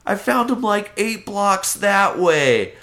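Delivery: lying sweetly to the dog's owner; innocent voice. Retold or imitated. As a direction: pile on the innocence. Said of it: "I was like".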